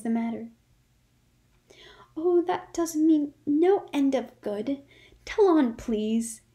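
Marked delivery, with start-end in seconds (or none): 2.2-6.4 merry delight. Acted. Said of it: "red and shining with merriment".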